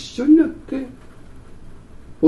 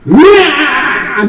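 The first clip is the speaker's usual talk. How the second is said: long drawn-out loud mock bawling; loud fake wail; 7 semitones higher, 8 dB louder, much slower than usual. Preacher retelling how he out-cried a toddler, big drawn-out mock wail. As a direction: wail louder than the crying child. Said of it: "その子よりも大きな声で泣いてやったんです".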